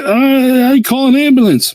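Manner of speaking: high, distressed retold plea; a touch of tearful panic, imitated; retold crying. Injured property manager begging for an ambulance, mild imitated crying.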